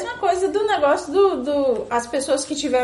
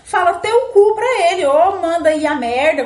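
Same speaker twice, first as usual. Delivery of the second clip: loud; 4 dB louder than usual. Acted. Telling listeners what to answer.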